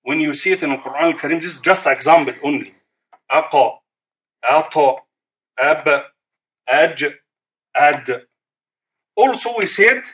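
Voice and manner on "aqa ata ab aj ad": "Aqa, Ata, Ab, Aj, Ad" with each consonant released in an echoing bounce; qalqala bounce. Shown as a demonstration. Teacher runs through all five qalqala letters, bouncing each. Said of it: "This is the letters of qalqala".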